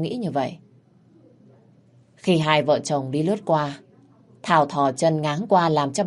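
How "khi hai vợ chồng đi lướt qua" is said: ordinary delivery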